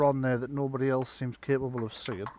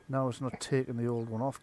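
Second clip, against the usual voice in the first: normal talking voice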